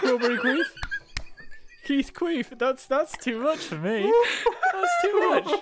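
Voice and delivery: laughing. Real, not acted. Mispronounced name, laughing.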